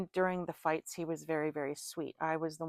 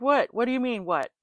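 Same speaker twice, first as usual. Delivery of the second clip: confused what; 5 semitones higher, 8 dB louder than usual. Retold or imitated. Boyfriend's confused reply retold.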